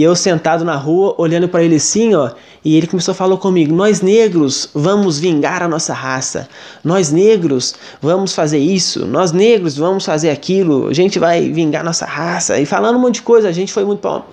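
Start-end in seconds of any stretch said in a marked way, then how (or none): 3.7-12.6 slow, menacing, lightly voiced possessed man; a hint of a dark spirit, said slowly; sinister possessed voice. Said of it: "uma coisa muito sinistra". (voz sinistra e lenta de possuído, levemente imitada)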